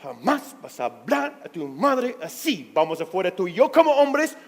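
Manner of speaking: mild mock of a stern father. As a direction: lay down the law, man to man. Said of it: "me puntó en el pecho y dice".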